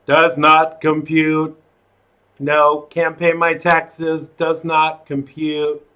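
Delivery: slow, lightly played robot voice; a hint of a malfunctioning robot, stiff and even. Host joking that he's a robot who can't pay taxes, slow robot voice. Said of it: "Wouldn't it be great to be a robot?".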